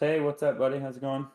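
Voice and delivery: put-on a playful Canadian accent calling out to a friend; mock Canadian accent. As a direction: greet like a jokey Canadian buddy. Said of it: "Listen to me, I'm Canadian".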